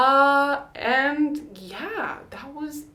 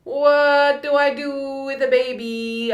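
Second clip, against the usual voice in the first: slow, raised bewildered question; dazed wonder; 5 semitones higher, 5 dB louder, slower than usual. Retold or imitated. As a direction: ask it in stunned awe. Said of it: "looking at him thinking".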